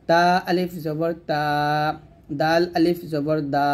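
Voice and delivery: tongue tip up, stretch তা, দা; tongue-tip madd. Shown as a demonstration. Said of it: "জিহ্বার আগা সামনের উপরে".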